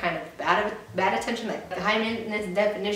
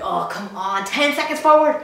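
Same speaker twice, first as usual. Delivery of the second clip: impatient viewer; 5 dB louder than usual. Acted. Bored viewer skipping the video, loudly exasperated. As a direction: groan it out like a fed-up viewer. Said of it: "you're probably just like".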